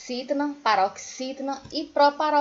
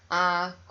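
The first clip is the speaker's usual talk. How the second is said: "Acordo" with COR held very long; sing-song stretch; 5 semitones lower than usual. Shown as a demonstration. Teacher showing a paroxytone's stressed syllable, sing-song stretch. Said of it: "você viu que é o co".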